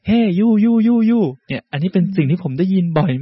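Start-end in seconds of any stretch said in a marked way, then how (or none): 0.1-1.2 vendor calling out. Retold or imitated. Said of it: "ก็ต้องเรียกชาวต่างชาติว่า".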